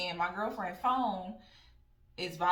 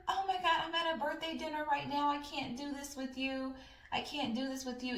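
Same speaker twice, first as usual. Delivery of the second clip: high flustered voice, lightly put on; mock flustered friend; 8 semitones higher than usual. Friend caught on the phone, high flustered voice. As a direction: play her as flustered and caught.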